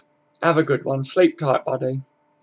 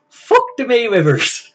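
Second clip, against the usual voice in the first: higher, slowed, put-on voice, dragged out; catchphrase impression voice; 8 semitones higher, 4 dB louder than usual. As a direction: ham up the catchphrase in a borrowed voice, slowly. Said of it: "do your fuck the Mayweather impression again".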